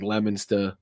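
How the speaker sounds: Leominster said as "LEM-in-stuh"; local town pronunciation. Shown as a demonstration. Host showing odd town spellings, Leominster said locally as "lemminstuh". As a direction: say Leominster the Boston way, final r dropped. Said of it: "spellings of Massachusetts towns".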